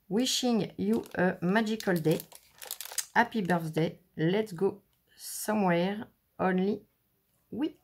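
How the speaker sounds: English read with a heavy French accent; a French crafter reading her stamp sentiments in accented English. Real, not acted. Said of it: "je m'excuse pour mon anglais, hein, il est pourri".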